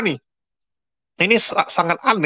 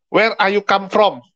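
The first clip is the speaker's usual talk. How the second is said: put-on high, slow broken English with Indonesian accent. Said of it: "Nah, ngomongnya gitu".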